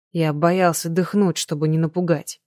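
usual speaking voice

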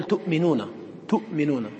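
تؤمنون as tu'-minuna, with a glottal stop; audible hamza. Shown as a demonstration. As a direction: pause on the catch after tu in تؤمنون. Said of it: "ظهرت همزة".

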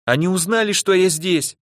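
high, alarmed little voice; frightened squeak. A narrator's reading. Igor sure he has been found, frightened squeaky voice. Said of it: "испуганно пискнул Игорь".

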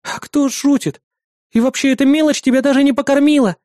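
high, outraged bossy neighbour; indignant. Acted. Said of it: "возмутилась Маруся".

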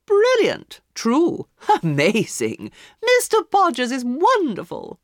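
high, loud cries of delight with a laugh; loud delighted guests. A narrator's reading. Guests praising the palmist, loud and delighted. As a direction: gush over the palmist. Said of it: "They all laughed and talked loudly".

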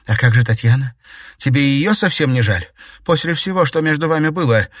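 indignant. A narrator's reading. Margarita keeps accusing the emperor.

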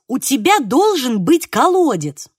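won't let it go, insist firmly; insistent. Acted. Mother insisting to Franek about the well, stubbornly. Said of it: "Не отступалась моя мамуся".

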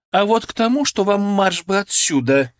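выше и громче, командуя; прикажи как старшина; командный тон. A narrator's reading. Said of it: "скомандовала Лидочка". (громкая команда)

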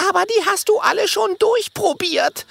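desperate. Acted. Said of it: "erwidert Minimo verzweifelt".

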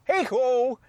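high frog-puppet greeting; Kermit the Frog. Acted. Host greeting listeners in high Kermit voice. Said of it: "that's how Kermit".

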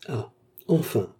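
slow, drawn-out relieved exclamation; joyful cry. A narrator's reading. Maid as her mistress wakes, joyful cry. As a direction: rejoice with a long sigh of relief. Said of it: "s'écria la femme de chambre d'un ton joyeux".

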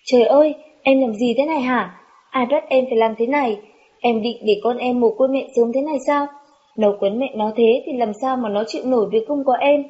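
a touch of a howl, held back; anguished cry. Acted. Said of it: "gào thét".

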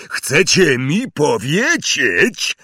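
loud slow roar. Acted. Hagrid to the Dursleys, roaring. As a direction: bellow it at the Dursleys. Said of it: "ryknął na nich".

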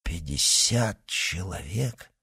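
low astonished mumble; mumbled. Acted. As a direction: mutter it in disbelief. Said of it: "пробормотали Д'Артаньян и Портос".

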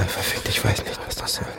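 whispered swearing. Acted. Sniper swearing under his breath.

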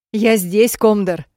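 loud, high, hysterical call; hysterical shout. Acted. Heroine calls to the blinded Ned, hysterical shout. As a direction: yell so he can find you. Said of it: "прикрикнула я истерически".

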